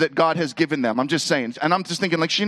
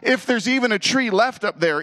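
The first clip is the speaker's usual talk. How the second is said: mock panic, pitched up; panicked thought; 7 semitones higher than usual. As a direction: act out the dread of ruining Christmas. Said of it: "now I'm thinking".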